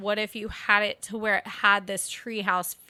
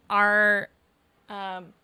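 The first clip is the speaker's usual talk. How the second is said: burping mid-sentence; words broken by a burp; talking while burping. Real, not acted. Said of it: "sorry, I keep burping".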